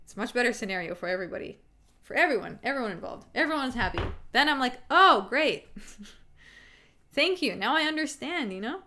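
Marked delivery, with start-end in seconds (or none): 4.9-8.5 higher, lifted appreciative reply; pleased acceptance. Acted. Speaker acting out a reply to someone who talked it out, pleased acceptance. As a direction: act out a relieved thank-you, starting loud.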